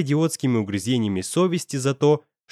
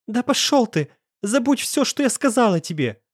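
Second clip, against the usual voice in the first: much higher, blurted with anguish; strained outburst; 10 semitones higher than usual. A narrator's reading. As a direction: blurt it out at breaking point. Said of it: "С надрывом выпалила она". (с надрывом выпалила)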